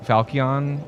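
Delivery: Falchion with a K, FAL-kee-on; trial pronunciation. Shown as a demonstration. Player trying another way to say the sword, tentative pronunciation. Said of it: "I've always pronounced it Falchion".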